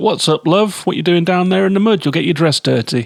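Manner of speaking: put-on no-nonsense granny voice. Describing a character who meets a maiden staring into a lake: no-nonsense grandma voice. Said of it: "she's like a no nonsense grandma".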